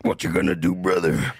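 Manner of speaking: low wrestler catchphrase voice; Hulk Hogan. Shown as a demonstration. Host attempting an impression on request, low wrestler voice. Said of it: "Hulk Hogan".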